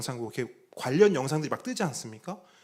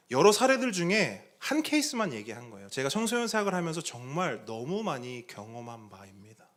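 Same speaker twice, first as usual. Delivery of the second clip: normal talking voice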